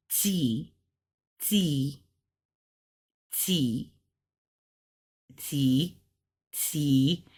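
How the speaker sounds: "T" said like T and G together, slowly repeated; T-G blend. Shown as a demonstration. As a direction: blend a G into each "T", spaced out. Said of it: "like a T and a G at the same time".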